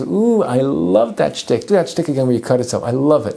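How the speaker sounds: mocking delight. Eliyahu enjoying the prophets' failed act, mock delighted. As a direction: savor their misery in mock admiration. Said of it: "And he's laughing and laughing".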